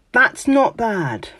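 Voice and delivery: slow, high, grudging "That's not bad"; grudging praise. To a friend's work, grudging mock-British praise. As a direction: draw it out like faint praise. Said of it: "saying things like".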